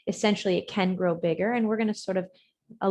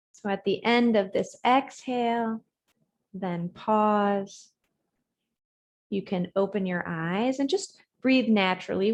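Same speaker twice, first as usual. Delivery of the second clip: unhurried yoga cues with long silences; guided breathing meditation. Real, not acted. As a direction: guide the breath phrase by phrase, leaving room to follow.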